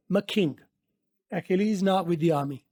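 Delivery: very slow, each word laid out; slow teaching read. Shown as a demonstration. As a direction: model the line slowly.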